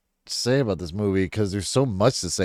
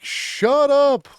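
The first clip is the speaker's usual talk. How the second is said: very high, louder snapping shut up; high mock shush; 5 dB louder than usual. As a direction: squeal the hush at him. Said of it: "they're like".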